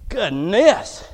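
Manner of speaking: openly voiced, rising exasperation; exasperated exclamation. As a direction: let it out indignantly, lifting at the end. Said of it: "let me rephrase and reframe".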